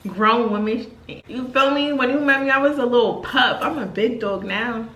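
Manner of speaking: teasing grown-woman swagger; sassy retold boast; sassy bragging. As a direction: brag like you know you look good. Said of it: "And I'm like".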